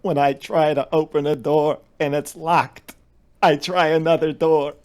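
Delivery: put-on an old Jewish grandpa's accent, drawn out and loud; Jewish grandfather accent. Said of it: "my Jewish grandfather used to say".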